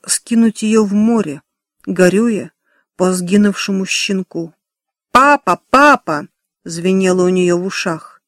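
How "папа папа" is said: papa called out louder and higher; a child calling her dad, higher and louder; desperate call. A narrator's reading. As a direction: cry out for her father. Remembered cry for father.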